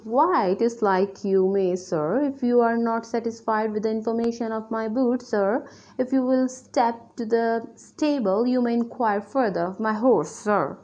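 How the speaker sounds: lightly acted Sir Wilfull. Sir Wilfull answering Petulant about his boots, lightly acted retort. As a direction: read it out as a measured retort.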